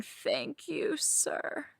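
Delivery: thin high cry on "Thank you", "sir" breathed out voiceless; a high broken wail of gratitude. Acted. Thanking her dom mid-scene, high breaking wail. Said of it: "I am wailing".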